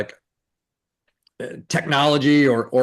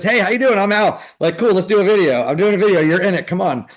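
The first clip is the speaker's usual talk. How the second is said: higher, bold walk-up greeting; breezy, higher-pitched go-getter pitch; fearless greeting; 5 semitones higher, 4 dB louder than usual. Retold or imitated. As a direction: imitate a fearless extrovert roping people in. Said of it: "he doesn't have any fear".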